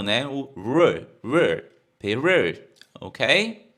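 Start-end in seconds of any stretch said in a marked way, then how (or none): 1.2-2.6 Peru with the R curled back, slow; curled English R. Shown as a demonstration. Teacher shows students the curled R in Peru. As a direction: roll back the tongue on Peru. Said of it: "é enrolado".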